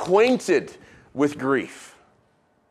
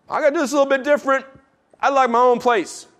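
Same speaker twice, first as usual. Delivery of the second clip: quick casual Abraham; 8 semitones higher, faster than usual. Acted. Abraham voiced explaining himself.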